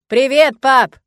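very loud bellowed greeting; loud yell. Acted. Boy shouting hello to his dad, loud yell. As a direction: yell it from far behind. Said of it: "громко проорал".

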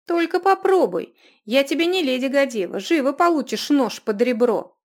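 high, loud angry snarl; furious threat. Acted. Runika threatens the mocking dwarf in rage. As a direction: threaten him with real fury.

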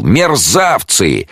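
high, slow drawn-out yell; furious jeweller shouting; bawling. A narrator's reading. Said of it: "горланил ювелир, что было сил".

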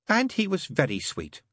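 high, wistful trance voice; wistfully. A narrator's reading. Mary remembering the baby, wistful. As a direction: recall it longingly. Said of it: "said Mary Hodges wistfully".

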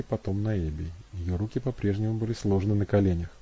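ordinary delivery

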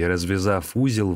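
usual speaking voice

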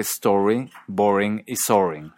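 "story, boring y soaring" with the o of sore; closed o. Shown as a demonstration. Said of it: "con la misma vocal que".

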